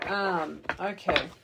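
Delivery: ordinary talk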